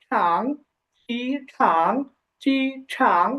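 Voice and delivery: ঠাং alone, then চি ঠাং in separated syllables ending in ng; pronunciation demo. Shown as a demonstration. Teacher showing how it should be pronounced, pronunciation demo of চি ঠাং. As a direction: model চি ঠাং with pauses between the parts. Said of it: "এভাবে উচ্চারণ হবে".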